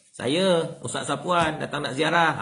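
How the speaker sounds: a clear, polite answer that gives the visitor's name; proper visitor reply. Retold or imitated. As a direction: introduce yourself by name at the door. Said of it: "Ah, macam tu". (tetamu memperkenalkan diri dengan jelas dan sopan)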